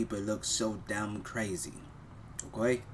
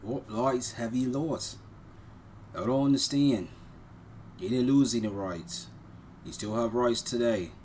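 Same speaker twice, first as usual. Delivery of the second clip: exasperated retort; 4 semitones higher, 3 dB louder than usual. Real, not acted. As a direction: fire back at the screen, fed up. Arguing back at the clip.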